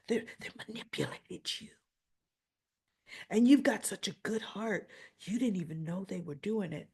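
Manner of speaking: a hint of Drew's creepy whisper; imitating a creepy whisper. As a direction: sweet-talk her in a hush. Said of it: "now he's starting to whisper".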